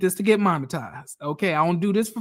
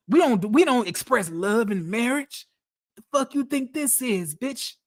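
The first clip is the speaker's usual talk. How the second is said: higher mock husband ranting, every bitch spat out; Charles voice; 4 semitones higher than usual. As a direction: play the cruel husband lecturing his wife. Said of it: "Y'all want me to do the Charles voice".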